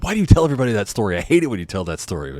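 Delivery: fast, annoyed complaint; rushed and fed up; exasperated wife. Retold or imitated. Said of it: "my wife is like".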